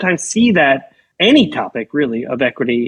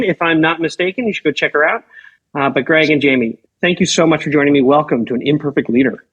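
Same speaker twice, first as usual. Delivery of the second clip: muffled, distant mic sound; down a well. Real, not acted. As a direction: voice far off, like from a well. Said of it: "so I sound as if I'm down a well".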